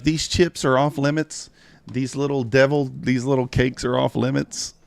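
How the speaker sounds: lightly voiced bossy daughter laying down the rules; imitating daughter. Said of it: "She's like".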